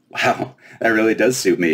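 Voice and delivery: put-on high, bright-eyed fairy girl, teasing. Fairy princess quizzing the giant girl, high and playful.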